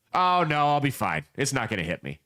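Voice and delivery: low, dismissive brush-off; mock dismissive. Man on the tracks brushing off a driver, dismissive and low. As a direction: wave off the warning, dropping low.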